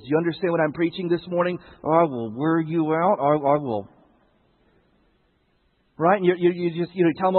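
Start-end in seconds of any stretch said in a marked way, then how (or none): 1.8-3.9 through clenched teeth. Retold or imitated. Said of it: "talked with my teeth clenched".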